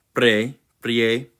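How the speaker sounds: "Pre, prie" with a lightly rolled r. Shown as a demonstration. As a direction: roll the r, then glide into pryeh on "prie". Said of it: "the R should be kinda rolled".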